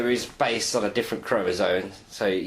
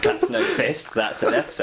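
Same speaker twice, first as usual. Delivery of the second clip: Star Wars quote; 3 semitones higher, slower than usual. Pretend. Star Wars quote after rock paper scissors.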